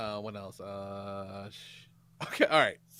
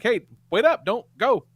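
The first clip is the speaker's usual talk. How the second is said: retold urgent call, higher and louder; 7 semitones higher, 7 dB louder than usual. Dad calls after departing partner, calling out. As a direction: call after someone who is leaving.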